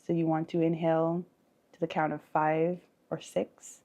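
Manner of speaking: unhurried breathing cues with long pauses; guided meditation. Acted. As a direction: leave room to breathe after each instruction.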